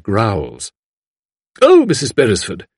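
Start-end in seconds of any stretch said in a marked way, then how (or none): 1.6-2.7 high, gushing exclamation; effusive cry. A narrator's reading. Visitor greeting the lady in bed, crying out. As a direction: cry out in an apologetic flutter. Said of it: "cried Miss Mullins".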